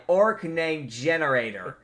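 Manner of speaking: slow, spaced-out announcement; saying out loud. Acted. Count Dragos staring into the sky, slow out-loud announcement. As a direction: announce it slowly to nobody. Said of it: "just says out loud, staring into the sky".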